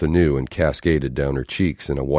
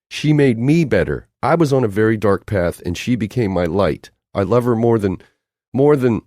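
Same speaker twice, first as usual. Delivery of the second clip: passionate declaration; 7 semitones higher, 4 dB louder than usual. Acted.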